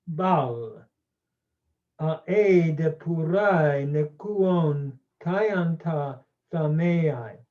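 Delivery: slow, careful read-aloud of the Homeric Greek; slow measured reading, not in hexameter. Shown as a demonstration. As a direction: read each Greek word slowly and clearly. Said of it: "I'll just read it slowly".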